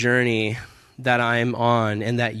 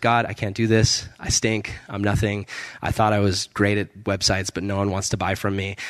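mildly defeated prayer, sinking lower; retold dejection; 4 semitones lower than usual. Man confessing failure to God on a walk, understated dejection.

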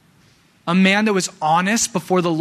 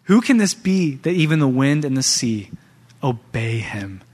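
awed disbelief. Retold or imitated. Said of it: "picture your disciples right now".

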